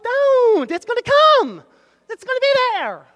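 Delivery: very high, loud, emphatic warning; exhorting shout. Real, not acted. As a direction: shout them out of their panic. Preacher scolds the acted panic.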